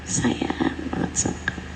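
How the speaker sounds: softly breathed, loving repeat; whispered tenderness. Pretend. Mother tells her child she loves her, whispering. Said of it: "duduk sama anak secara serius".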